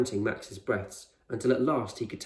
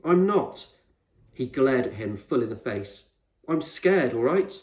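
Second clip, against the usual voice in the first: higher, louder snapping admission; a kid glaring, blurting he's scared; defensive angry boy; 3 semitones higher, 5 dB louder than usual. Acted. Boy denies anger, admits fear.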